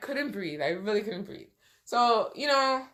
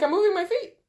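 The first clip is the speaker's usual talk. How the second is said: high, pleading insistence; 9 semitones higher, 3 dB louder, faster than usual. Retold or imitated. Patient protesting to the nurse, high and pleading. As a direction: insist you are trying, voice up high. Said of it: "I'm like".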